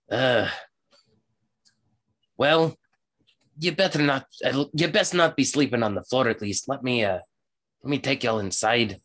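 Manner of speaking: rustic character voice, grudgingly helpful; warn, then reluctantly offer shelter; lightly voiced halfling. Halfling warning travellers of dangerous ruins, grudgingly helpful. Game master plays the halfling.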